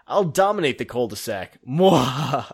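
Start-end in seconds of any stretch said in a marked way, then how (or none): 1.7-2.4 short mock evil mwah; tiny hammed-up villain laugh. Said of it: "not the mwahaha".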